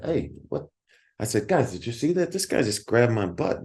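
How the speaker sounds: startled and indignant, calling out to the band; startled outcry. Retold or imitated. Reacting to the bouncer's grab.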